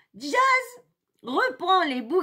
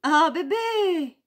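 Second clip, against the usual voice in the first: cooing; slower than usual. Real, not acted. Promising a loved one cuddles later, cooing.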